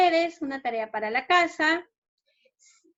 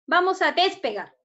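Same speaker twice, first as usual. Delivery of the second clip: "despegar" punched high before its last syllable, then falling; wrong stress, early in the word; 6 semitones higher, 3 dB louder than usual. Shown as a demonstration. Teacher trying it in a sentence, wrong early stress in "despegar". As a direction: keep the weight off GAR in "despegar". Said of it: "la mayor fuerza de voz está en la P".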